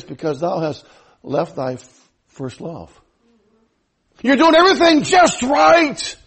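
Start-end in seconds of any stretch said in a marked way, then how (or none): 0.0-2.9 low, soft voice of God; voice of the Lord. Acted. Preacher voicing the Lord rebuking the church, low and soft. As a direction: speak as the Lord, lower and softer. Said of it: "And he said this".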